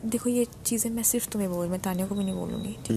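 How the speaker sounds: whispered confidence; hushed confiding. Retold or imitated. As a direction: lean in and keep it secret. Secret confided quietly.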